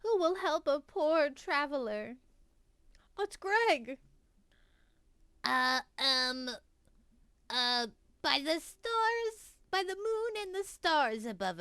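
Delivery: high, frantic cry for help; desperate traveler voice; panicked traveler. Acted.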